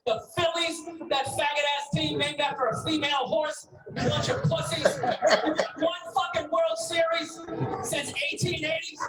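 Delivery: loud, furious tirade at the crowd with laughter breaking in; angry rant. Real, not acted. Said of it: "That's how you rant".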